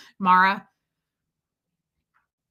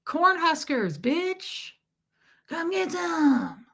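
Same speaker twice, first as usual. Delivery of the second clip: higher, slow swaggering taunt; mock tough guy; 7 semitones higher, much slower than usual. Mocking a bragging bro, slow swaggering taunt.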